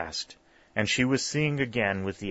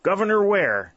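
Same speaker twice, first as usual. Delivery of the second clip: high, loud awed exclamation; old aunt crying out the governor's name, high and loud; exclaiming; 10 semitones higher, 5 dB louder than usual. A narrator's reading. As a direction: proclaim who he is, pitched high and loud. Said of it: "she exclaimed".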